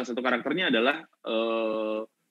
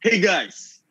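pumped-up opener; 4 semitones higher than usual. Shown as a demonstration. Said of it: "sekarang ngomongnya kayak gue".

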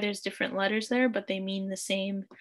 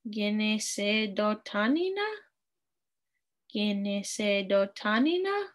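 "Ginise dotanina" slow, lifting on the end; slow rise into the end of "dotanina"; question tune; slower than usual. Shown as a demonstration. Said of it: "And it's a question".

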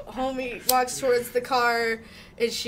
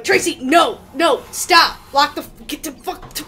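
frantic yell; 4 semitones higher, 7 dB louder than usual. Retold or imitated. Yelling at friend in retold scene.

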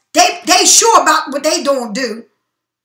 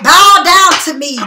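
louder and slower, like a command from above; slow, commanding God voice; 6 dB louder than usual. Retold or imitated. Reader voicing God's command to the listener, slow and loud. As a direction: lay it down as a decree. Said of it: "That's what God said".

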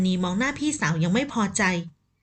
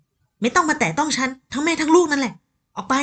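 angry rebuff; 5 semitones higher than usual. Acted. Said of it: "พันนีสะบัดตัวออก".

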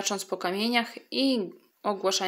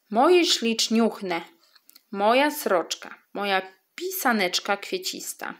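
fond cooing. Acted. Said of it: "skrzyczała pieszczotliwie sroka".

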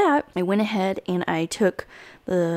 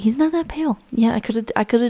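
quoted thought; 5 semitones higher, faster than usual. Retold or imitated. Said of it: "I was like".

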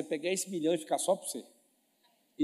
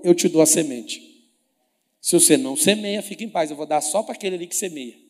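booming divine voice; 9 dB louder than usual. Acted. Voicing God's promise.

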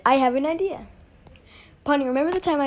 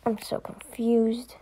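slow, soft, bewildered whisper; a quiet lost aside; confused whisper; 6 dB quieter, much slower than usual. Acted. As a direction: murmur it to yourself, baffled.

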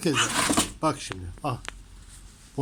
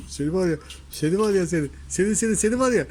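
mock threat; 2 semitones higher, 3 dB louder, faster than usual. Real, not acted.

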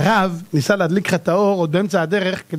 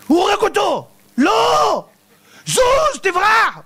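high, frantic cries at the screen; panicked moviegoer; 11 semitones higher, slower than usual. Retold or imitated. Moviegoer shouting at the screen in high panic. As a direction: yell warnings at a movie hero as if it's real.

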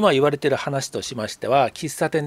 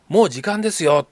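mildly raised voice, imitating a shop worker; half-hearted imitation of a loud reminder; retold loud call; 3 semitones higher, 5 dB louder than usual. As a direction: call it out a little louder. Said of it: "店の人が大きな声で".

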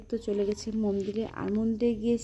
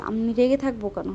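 raised, testy denial, louder; irritated denial; 6 dB louder than usual. Retold or imitated. Groom brushing off the teasing village women, louder and irritated. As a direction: snap back that nothing is wrong. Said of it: "অভ্র একটু রেগে থাকলে".

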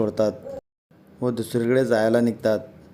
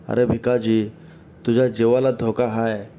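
a mildly raised urgent call, slowing at the end; calling out urgently. Acted. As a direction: call out a warning to a devotee far off, understated. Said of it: "असे मामा ओरडत असतात".

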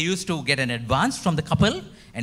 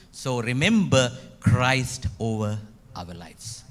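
slow proclamation; 3 semitones lower, slower than usual. Shown as a demonstration. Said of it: "Shall we say once again?".

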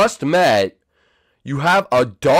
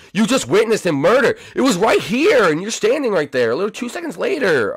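high, insistent protest; high-pitched comic exasperation; incredulous accusation; 6 semitones higher than usual. Real, not acted. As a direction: argue it in exasperated disbelief. Accusing a character of playing innocent.

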